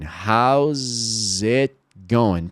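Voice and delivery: How's it going with the T of it swallowed, itgoing run together, very slow; dropped T. Shown as a demonstration. Teacher showing the T drop in How's it going. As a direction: let the T of it vanish. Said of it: "Por que que esse T aqui não tá aparecendo?".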